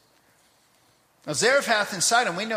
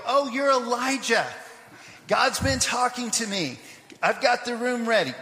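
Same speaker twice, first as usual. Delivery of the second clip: higher-pitched imagined eager greeting; mock delighted welcome; 5 semitones higher than usual. Preacher imagining a widow welcoming the awaited prophet, mock excited. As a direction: play the widow thrilled to recognize him.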